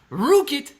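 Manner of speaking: high video-game battle cry; Street Fighter character. Acted. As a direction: shout it like a high-pitched fighting-game move. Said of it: "a dude from Street Fighter".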